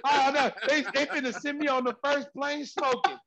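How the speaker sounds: high-pitched hammed-up dread; comic panic. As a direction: whimper that you are doomed, for laughs. Acting out his dismay.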